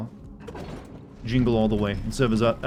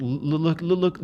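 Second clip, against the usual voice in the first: stuttering, glitchy higher AI voice; Shodan impression; 5 semitones higher than usual. Shown as a demonstration. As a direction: stammer like a broken machine. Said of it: "you stutter a lot and then pitch shift".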